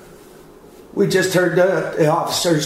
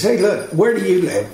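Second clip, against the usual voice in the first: retold raised-voice call, pitched higher; demanding shout, reenacted mildly; real loud; 4 semitones higher than usual. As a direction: call it out like summoning help, not at full volume. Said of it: "I started saying that real loud".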